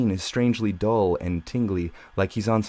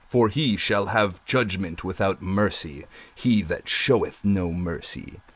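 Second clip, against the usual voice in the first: generic voice. Acted. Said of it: "lights up with a generic sounding".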